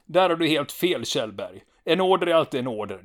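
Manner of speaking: loud, high, rigid insistence; insistent soldier. Retold or imitated. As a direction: lecture the lieutenant stubbornly. Stanneman argues with Kjellberg.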